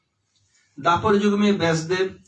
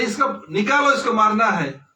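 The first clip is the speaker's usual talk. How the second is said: stern demand; 3 semitones higher than usual. Acted. Ram demanding the man.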